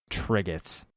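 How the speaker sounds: soft, hushed naming; hushed, in wonder; quietly. Acted. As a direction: say it softly, almost to yourself. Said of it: "I said quietly".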